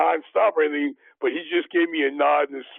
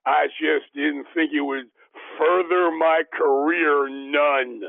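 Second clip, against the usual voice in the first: Arkansas drawl; slower than usual. Retold or imitated. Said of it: "in his Arkansas southern drawl".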